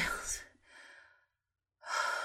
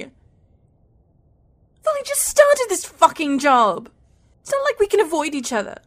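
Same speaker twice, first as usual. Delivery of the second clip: higher, heated protest; angry exasperation; 4 semitones higher than usual. Acted. Woman to lover she works with, angry and exasperated. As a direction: complain angrily in a raised pitch.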